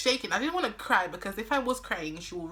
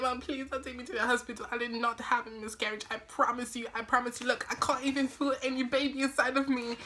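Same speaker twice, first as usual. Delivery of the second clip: mock pleading; 4 semitones higher than usual. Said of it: "I'm like".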